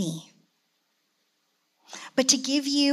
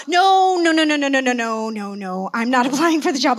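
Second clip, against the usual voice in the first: laughing denial; 6 dB louder than usual. Retold or imitated. Denying to elder, laughing.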